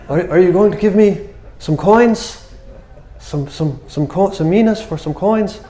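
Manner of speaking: high, hesitant beggar's voice; puzzled blind beggar. Acted. Blind man asking the stranger for coins, high and puzzled.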